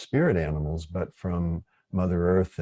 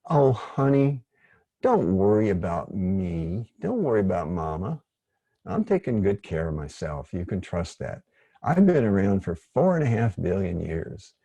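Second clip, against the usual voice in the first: Mother Earth's voice. Retold or imitated. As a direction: imitate a mild old mother gently scolding her kids. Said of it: "this is exactly how she sounded, maybe a little higher pitch".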